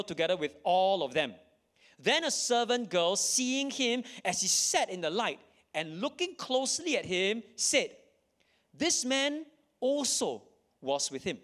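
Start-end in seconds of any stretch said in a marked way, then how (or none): 2.0-11.4 dramatic raised reading. Acted.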